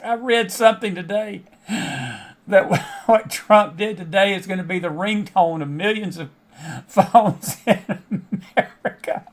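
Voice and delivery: words broken by real laughter; laughing while telling. Real, not acted. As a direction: chuckle through the joke about Trump. Laughing at Trump ringtone joke.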